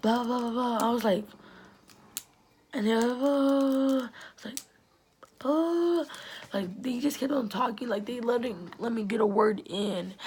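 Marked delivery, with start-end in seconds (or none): 0.0-6.0 higher and louder mock chatter; mocking blah blah. Mimicking the girls crowding her, mocking high chatter. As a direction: parody their nagging, climbing to a squeal.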